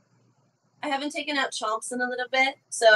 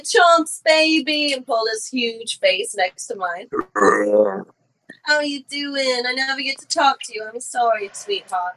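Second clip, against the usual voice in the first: put-on baby talk to pet; 3 semitones higher, 4 dB louder, slower than usual. Owner cooing to her pet T-Rex.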